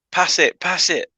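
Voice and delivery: imitated American voice, drawn out; American accent. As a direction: mimic his American accent in the game. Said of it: "you go from American to".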